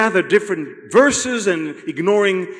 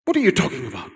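Peter's rebuke; 4 dB quieter, faster than usual. Acted.

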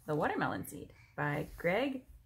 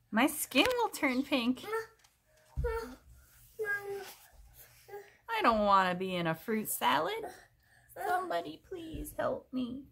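crocodile in panic; 10 semitones higher, 4 dB louder than usual. Acted.

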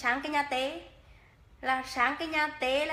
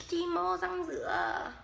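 slow, drawn-out Hà Tĩnh phrase, "mô" higher and falling; slow Hà Tĩnh accent showing off the dialect; 4 semitones higher, slower than usual. Shown as a demonstration. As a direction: savour each Hà Tĩnh word slowly. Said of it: "bắn tiếng Hà Tĩnh cho chị em nghe".

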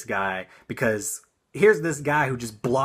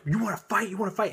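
high, taunting road-rage imitation; mock tough guy; 11 semitones higher, faster than usual. Driver at the car window, high mocking taunt. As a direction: needle him like a hothead. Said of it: "he just is like".

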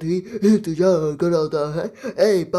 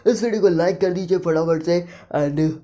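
youtuber outro. Acted. Gamer signs off to his viewers, energetic outro. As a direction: wrap up for the subscribers.

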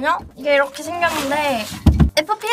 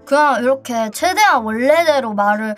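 helium-changed voice; squeaky helium talk; chipmunk voice; 4 dB louder than usual. Real, not acted. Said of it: "목소리가 좀 다르다 해야 되나".

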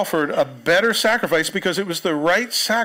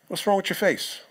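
put-on God with a New Jersey accent, a bit higher; 5 semitones higher than usual. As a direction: tough Jersey guy asking "what's wrong with your face". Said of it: "The Jersey version".

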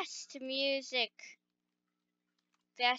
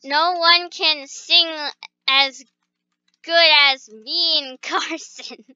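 loud boast; 7 dB louder than usual. Pretend. Bragging singing loudly.

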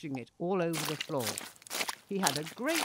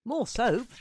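laughing call; 6 semitones higher, 5 dB louder than usual. A narrator's reading. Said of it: "laughed Freddy and his friends".

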